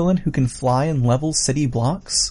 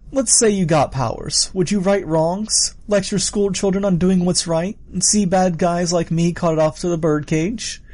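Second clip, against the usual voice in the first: higher, questioning villain voice; amused villain; 6 semitones higher than usual. Acted. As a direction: needle them with a rising question.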